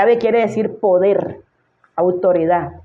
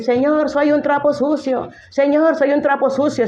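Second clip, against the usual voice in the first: mock self-pity; 7 semitones higher than usual. Preacher mocking sermons that make people grovel, high whiny voice. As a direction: mimic a pitiful pleading worshipper. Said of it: "prédicas que te ponen a repetir".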